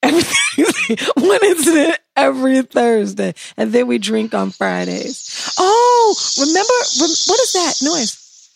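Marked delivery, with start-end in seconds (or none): 0.0-3.3 laughing tease. Real, not acted.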